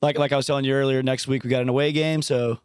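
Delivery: hoarse, worn-out voice after screaming. Real, not acted. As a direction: speak with a voice shredded from yelling all day. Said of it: "I don't normally sound like this".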